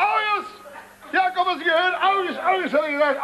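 high-pitched, affronted exclamation; indignant outcry. Acted. Insulted father calls on his witness, indignant outcry.

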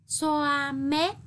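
xoa with a flat-tongue s and rounded oa; careful xoa mép. Shown as a demonstration. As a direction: model xoa mép clearly for pupils. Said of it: "tiếng xoa có âm sờ, đọc thẳng lưỡi. Vần oa, tròn môi".

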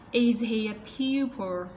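slow, tongue curled for the L at the end of "pupil"; curled final L. Shown as a demonstration. Teacher modelling the final L for pupils, slow. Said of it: "L uốn cong lưỡi ở cuối".

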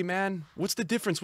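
ordinary talk

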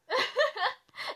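loud, high burst of laughter; helpless high laughter. Real, not acted. Streamer cracking up at her warped face, loud laughter. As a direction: let the laugh burst out of you.

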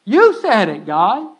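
loud, slow and pleading to God; bold prayer. Shown as a demonstration. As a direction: call out to God, dragging the words. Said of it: "You start telling God".

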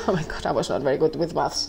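laughing out oh my God. Real, not acted. Laughing at her own bad maths, amused. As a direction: burst into a real laugh.

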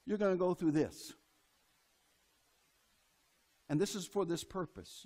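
a lightly voiced God, low and quiet; hint of a calm divine voice laying out the road ahead; voicing God. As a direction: speak for God, low and hushed, almost confiding. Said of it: "God says".

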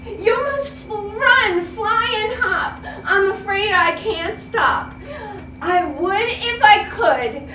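lightly voiced elephant, itchy and sorry; apologetic elephant. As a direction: elephant who can't help it. Elephant apologizes, itching trunk.

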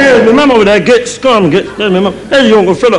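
high mock kid chatter; excited child. Children on stage waving at family, excited high voice. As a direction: call out relatives like a small child.

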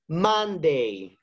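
Monday said slowly and clearly for repeating; pronunciation drill. Shown as a demonstration. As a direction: model Monday, each syllable clear. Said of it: "Repeat after me".

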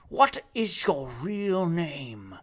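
slow hushed whisper; slow secret whisper. Acted. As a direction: lean in and breathe the question.

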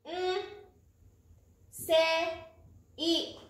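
"ん、 せ、 い" as separate beats with long pauses; one beat each for "ん", "せ", "い"; mora by mora. Shown as a demonstration. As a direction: isolate each sound of "ん、 せ、 い". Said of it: "音も一つです".

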